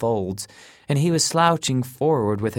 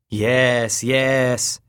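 quick, louder impatient yes yes; impatient agreement; 4 dB louder than usual. A narrator's reading. Kenny hurrying Maroney to the secret, impatient. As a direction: brush it aside to get the answer. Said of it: "Kenny agreed impatiently".

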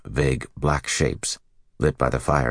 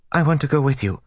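much higher and louder, fervent plea; 13 semitones higher, 4 dB louder, faster than usual. Acted. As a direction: beg it with fervour. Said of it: "the novice said fervently".

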